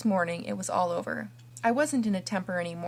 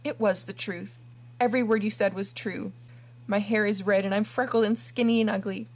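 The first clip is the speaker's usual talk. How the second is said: pleading. Acted. Kneeling orphan begs forgiveness.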